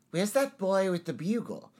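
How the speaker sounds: high, broad Cockney; attempted Australian that comes out Cockney; Cockney accent. Shown as a demonstration. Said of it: "That's Cockney. I can't do Australian".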